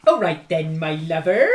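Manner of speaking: put-on hammy Welsh accent; lilting put-on Welsh voice. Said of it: "What is this voice?".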